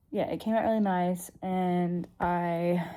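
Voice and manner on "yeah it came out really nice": talking with a retainer in; repeated with the retainer lisp; wearing a retainer. Real, not acted. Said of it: "Sorry, I've got my retainer in".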